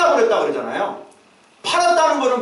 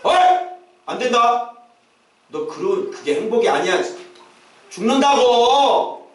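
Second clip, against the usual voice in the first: a leader yelling out, last word dragged long; shouted warning; slower than usual. Shown as a demonstration. Leader to a straying member who will not listen, shouted warning. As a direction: call out a warning to someone straying. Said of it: "이렇게 소리를 지르는 거예요".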